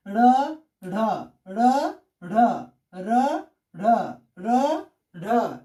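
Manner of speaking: र and ढ as separate, isolated syllables; demonstrated letter reading. Shown as a demonstration. Teacher showing students how letters are read, demonstrated slowly apart. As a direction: recite र, ढ in alternation, pausing after each. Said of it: "ऐसे पढ़ते हैं".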